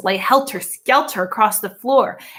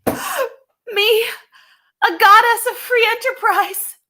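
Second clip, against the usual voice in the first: surprised; 12 semitones higher, 4 dB louder, slower than usual. A narrator's reading. Mo stunned by praise.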